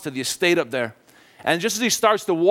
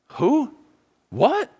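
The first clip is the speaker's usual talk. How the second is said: high, short disbelieving questions; indignant double take, pitch leaping; incredulous; 9 semitones higher than usual. Acted. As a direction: squeak up in acted disbelief. Older brother hears of the party.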